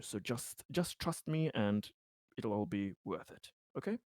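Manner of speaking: lightly voiced hesitant reassurance, halting between phrases; Conrad, earnest and careful. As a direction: reassure carefully, searching for each word.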